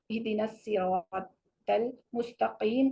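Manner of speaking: slow demo of the mistaken المستقیم; wrong tajweed. Shown as a demonstration. Teacher showing students a common mispronunciation. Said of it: "کو ہم نے مستقیم پڑھ دیا".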